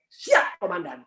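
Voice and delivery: jawaban prajurit. Acted. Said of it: "Biasanya pasti perintah". (jawaban prajurit kepada komandan, tinggi lalu turun)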